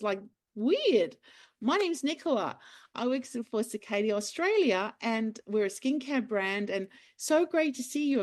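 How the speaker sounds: bright, high, eager greeting to a celebrity; excited hello. Retold or imitated. Fan greets celebrity chef in supermarket, nervously excited. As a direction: gush nervously at a famous stranger.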